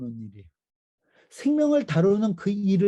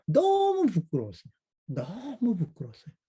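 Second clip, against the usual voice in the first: ashamed confession; 4 semitones higher than usual. Real, not acted. Emotional confession.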